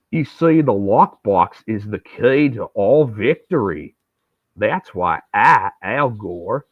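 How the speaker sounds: slow, lightly voiced stiff candidate; a light Al Gore parody with slow, drawn-out words; Saturday Night Live Al Gore. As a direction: lecture the debate audience slowly and woodenly. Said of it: "That is my Saturday Night Live Al Gore".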